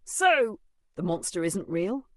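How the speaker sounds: high, startled question; astonished. Acted. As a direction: ask in disbelief. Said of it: "Mackie's jaw dropped".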